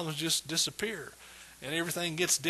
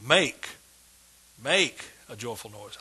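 "make" set apart by a pause, the rest dropping lower; stress on MAKE; 5 semitones lower than usual. Shown as a demonstration. Preacher showing how to chew on a verse, stress on "make". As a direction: hit MAKE hard and alone. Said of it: "I'll emphasize different words".

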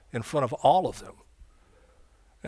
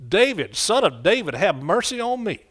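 hollering out; 4 semitones higher than usual. Retold or imitated. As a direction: cry out for mercy to someone passing by. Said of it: "hollering out".

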